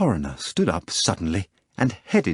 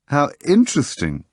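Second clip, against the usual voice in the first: exclaiming; 6 semitones higher, 3 dB louder than usual. A narrator's reading. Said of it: "the foreigner exclaimed".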